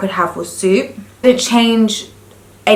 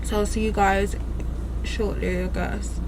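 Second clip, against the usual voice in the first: numb from the dentist; 6 dB quieter than usual. Real, not acted. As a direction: talk with a numb mouth after drilling. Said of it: "my mouth is still numb".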